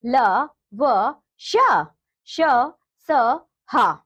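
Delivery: क, ख, ग each said alone with pauses; consonant drill. Shown as a demonstration. Teacher reciting consonants for children, one by one. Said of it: "जैसे".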